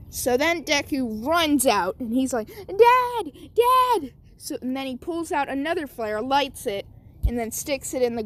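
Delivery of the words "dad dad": high, loud call across the woods. Acted. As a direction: yell for dad to find you. Boy calling for his dad.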